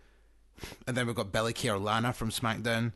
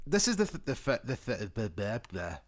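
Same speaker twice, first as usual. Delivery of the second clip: talking through a swollen mouth; words thick from a mouth ulcer. Real, not acted. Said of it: "my mouth is swollen up a bit".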